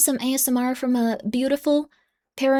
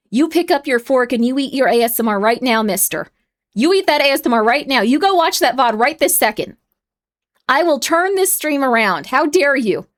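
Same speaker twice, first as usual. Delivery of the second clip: hammed-up stern scold, louder; mock scolding; 3 dB louder than usual. Streamer mock scolding chat for ignoring ASMR, hammed-up stern. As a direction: wag a finger at chat like a stern parent.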